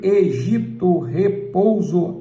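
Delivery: slow demonstration of three-syllable words. Shown as a demonstration. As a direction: space out each syllable evenly. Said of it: "palavra com três sílabas".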